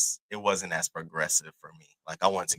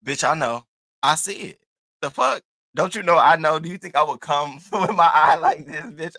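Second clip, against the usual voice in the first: high-pitched, heated retold retort with a laugh; so mad; 7 semitones higher, 6 dB louder than usual. Telling the date off for noticing the eye, mad retort. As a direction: snap back defensively, voice climbing high. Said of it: "I was just so mad".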